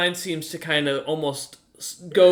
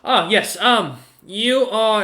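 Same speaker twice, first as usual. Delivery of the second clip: much higher, louder, forgetful dwarf, searching for his own name; a cheery, absent-minded old mage who loses his thread; scatterbrained old dwarf wizard; 7 semitones higher, 6 dB louder than usual. Acted. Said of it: "he just goes".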